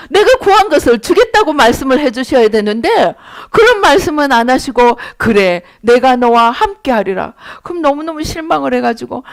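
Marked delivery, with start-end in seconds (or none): 5.2-7.3 God's calm answer. Retold or imitated. God's answer voiced again.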